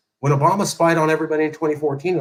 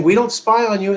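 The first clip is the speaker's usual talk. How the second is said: higher, mock-innocent politician denial; mild mock of a smooth denial; mocking Obama's denial; 8 semitones higher than usual. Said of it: "lied to the American people on T V saying".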